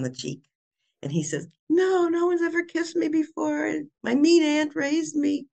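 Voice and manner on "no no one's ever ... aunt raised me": put-on much higher, slower childlike villain voice; the villain suddenly sounds like a hurt little boy; sad villain. Villain softened by kiss.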